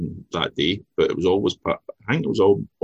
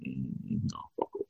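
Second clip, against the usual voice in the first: cold brush-off; 6 semitones lower, 10 dB quieter than usual. Retold or imitated. Mimics cold locals.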